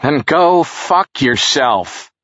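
angry yell. A narrator's reading. Jerry yells back at Charles from the shower, angry. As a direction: snap it back through the door, slow and high. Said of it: "Jerry yelled back".

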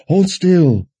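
high, loud, distressed command; tearful admonishing. A narrator's reading. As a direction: scold urgently as if through tears. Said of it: "admonished through her own tears".

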